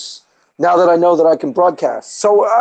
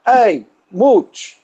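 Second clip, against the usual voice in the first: higher, hammed-up New York movie character; New York accent; 9 semitones higher than usual. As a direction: do the pizzeria tough guy from the movie. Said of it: "that's my New York".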